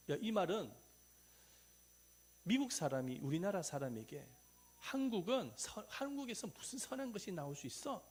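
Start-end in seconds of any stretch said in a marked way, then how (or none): 4.8-8.1 acted put-down in raised pitch; belittling jibe. American talks down to a Korean, acted belittling jibe. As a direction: mimic a foreigner's scornful question. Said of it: "이렇게 핀잔을 주는 거랑 마찬가지입니다".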